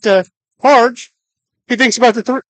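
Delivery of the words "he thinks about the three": words stretched by a yawn. Real, not acted. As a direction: talk through a yawn. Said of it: "Sorry, the yawn".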